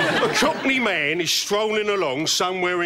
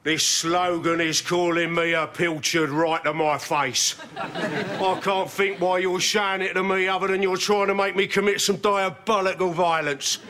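raised pitch, insulted tirade; affronted menace; 5 semitones higher than usual. Acted. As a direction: accuse him as if gravely insulted. Insulted client threatens ad man.

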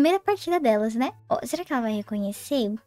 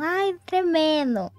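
mock viewer quote; 4 semitones higher, much slower than usual. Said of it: "quando vocês falam".

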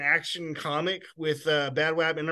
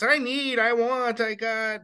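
put-on higher-pitched child pestering; lightly mock needy kids, pitched up; mimicked demanding kids; 5 semitones higher, slower than usual. Parent imitating kids who interrupt reading, pestering.

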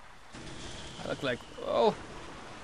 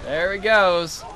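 slow loud triumph; 6 dB louder, slower than usual. Real, not acted. Enemy ship sinking.

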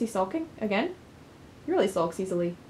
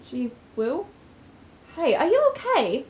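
worried friend voice; 4 semitones higher, slower than usual. Acted. Friend worried after nightmare.

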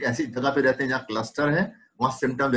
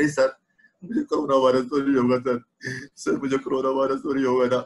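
anxious patient. Retold or imitated. Doctor voices anxious patient.

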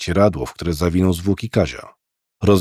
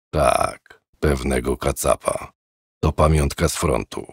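put-on old man; 6 semitones lower, 5 dB quieter than usual. Old man voiced in story.

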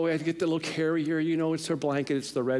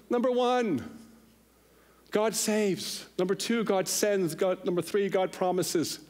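mock preacher; 5 semitones higher than usual. Impatient congregant showing the pastor how to preach, mock preaching. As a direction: parody an amateur preacher announcing points.

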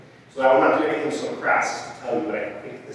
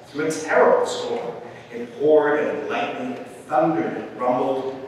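measured picture-book reading with pauses; story narration; 4 dB louder than usual. A narrator's reading. Reader tells how elephant sat through storm, storytelling. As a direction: tell it lingering on the repeats.

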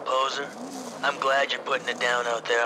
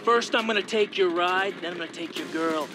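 higher, louder cocky boast; loud taunt; 5 semitones higher, 4 dB louder than usual. Acted. Rival racer brags to the challenger before the race, loud and cocky. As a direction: crow the threat at him.

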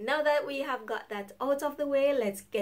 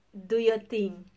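dismissive; 3 dB louder, slower than usual. Retold or imitated. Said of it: "We are always saying".

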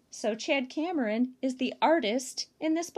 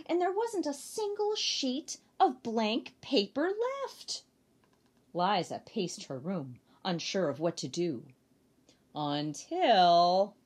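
lively storybook read-aloud; reading to children; 2 semitones lower than usual. Acted. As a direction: read it to a circle of little kids. Reads picture book to children.

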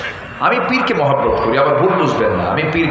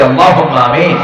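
louder amen; 5 dB louder than usual. Shown as a demonstration. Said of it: "জোরে বলি".

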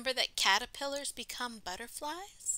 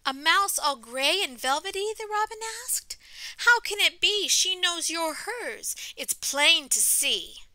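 louder, lilting storybook reading; story read-aloud; 3 semitones higher, 10 dB louder than usual. A narrator's reading. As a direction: read it out to children, slowing for the refrain. Reading picture book aloud to children.

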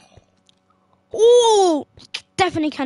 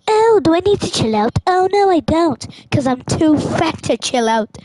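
put-on sassy baby retort, pitched up; Stewie voice. Stewie snapping back at the dog Brian. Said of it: "that Stewie voice".

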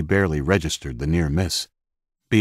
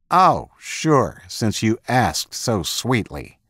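mock him for asking nicely; sarcastic mockery; 5 semitones higher, slower than usual. Gunman mocks hostage's plea.

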